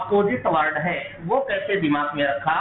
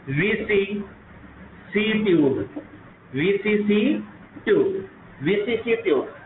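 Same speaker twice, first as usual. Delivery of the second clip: slow spelled-out mnemonic; much slower than usual. Shown as a demonstration. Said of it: "teacher spells out mnemonic".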